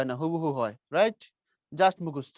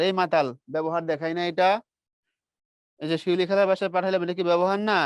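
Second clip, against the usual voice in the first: teasing scolding; 4 dB louder than usual. Real, not acted. Teacher scolding silent class.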